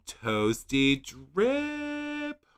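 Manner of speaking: very slow, breathy amazed repeat; gasped repeat. Real, not acted. Vlogger gasping at the color name, slow and amazed. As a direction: savor it in disbelief.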